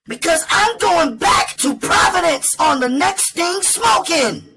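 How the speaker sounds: very high-pitched woman airing angry grievances; defiant outburst. Acted. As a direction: rail at him, high and daring. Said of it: "Then she went on".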